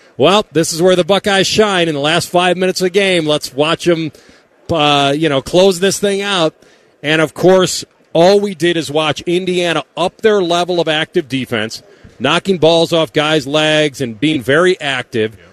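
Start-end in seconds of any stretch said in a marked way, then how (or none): 0.2-6.6 put-on sarcastic, knowing commentator's voice. Retelling a remark to friends while watching a losing game: imitating own sarcastic remark. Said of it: "I looked at Maddie and C B sarcastically".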